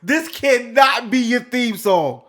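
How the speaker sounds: high, loud comic disbelief; incredulous shouting. Retold or imitated. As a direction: shout it like you can't believe what you heard. Retells disbelief at the theme song.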